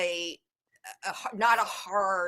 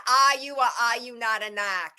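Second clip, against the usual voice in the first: put-on Boston accent; 2 semitones higher, 5 dB louder than usual. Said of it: "that movie with Melissa McCarthy".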